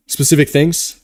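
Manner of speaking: words stretched by a yawn; talking through a yawn. Real, not acted. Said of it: "Sorry, I'm yawning".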